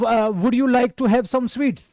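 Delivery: hesitant offer with a frown. Shown as a demonstration. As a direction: ask with a furrowed brow, stumbling at the start. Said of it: "माथे में तुम्हारे सिलवटे हैं". (माथे पर सिलवटें डालकर झिझकते हुए)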